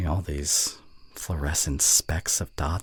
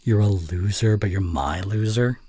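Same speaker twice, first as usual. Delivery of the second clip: reading a bully line; 3 semitones higher, 4 dB louder than usual. Acted. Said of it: "what's this part here".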